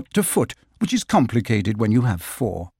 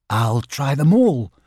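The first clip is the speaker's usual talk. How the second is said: cheerful. Acted. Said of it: "said Christopher Robin cheerfully".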